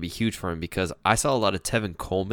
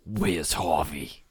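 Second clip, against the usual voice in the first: slow mock Boston accent; 3 semitones lower, much slower than usual. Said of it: "in a Boston accent".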